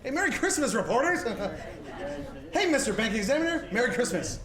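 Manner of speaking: loud, laughing cheer; exuberant greeting. Acted. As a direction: greet everyone as if overjoyed to see them. Joyful greetings to officials.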